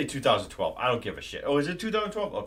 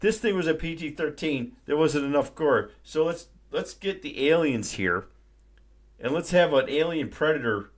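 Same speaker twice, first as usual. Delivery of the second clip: loud, higher mock pitch of a clueless studio boss; sarcastic boardroom voice, raised; mocking studio exec; 4 semitones higher, 4 dB louder than usual. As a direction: ham up the dumb executive pitching gore. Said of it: "they're like".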